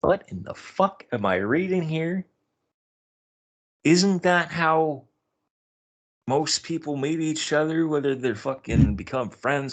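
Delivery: incredulous. Retold or imitated. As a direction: sound truly thrown by the post. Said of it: "And I'm like".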